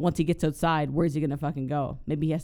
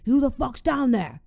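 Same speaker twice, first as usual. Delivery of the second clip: higher, louder hammed-up yell; angry shout; 8 semitones higher, 4 dB louder than usual. Robber yelling down at the unseen intruder, mock angry. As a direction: bark it down into the crawl space. Robber yells into crawl space.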